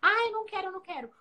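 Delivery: a hint of a whining kid, high then trailing off; whiny child. Mother imitating her son refusing the coat, mild whine.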